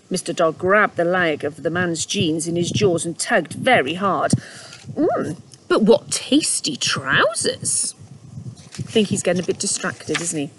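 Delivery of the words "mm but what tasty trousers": slow, savouring, higher voice; dreamy dog. Acted. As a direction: relish it slowly. Dog distracted by jeans.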